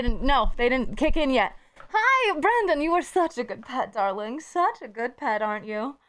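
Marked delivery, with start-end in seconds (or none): 1.9-6.0 pet talk. Real, not acted. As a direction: coo at the little one. Talking to a pet.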